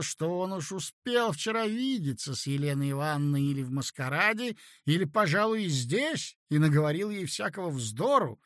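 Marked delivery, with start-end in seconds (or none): none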